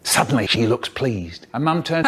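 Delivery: ordinary talk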